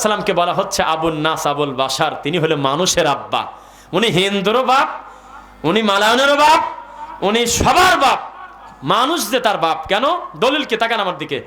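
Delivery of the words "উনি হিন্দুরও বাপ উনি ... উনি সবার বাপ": rising emphatic declaration. Real, not acted. Preacher insisting Adam is father of everyone, building emphatic declaration. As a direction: hammer it out to the crowd, climbing in force. Preacher hammers home his point.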